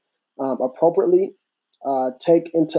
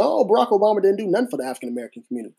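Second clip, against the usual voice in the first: fast, higher mocking voice; mocking quote; 5 semitones higher, much faster than usual. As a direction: rattle it off like a doubter. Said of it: "so people say".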